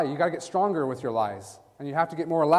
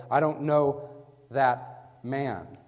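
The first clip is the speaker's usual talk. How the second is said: sworn denial; much slower than usual. Acted. Peter swears hand on the Bible, emphatic denial. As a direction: swear it word by word. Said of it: "That's right hand up, hand on the Bible".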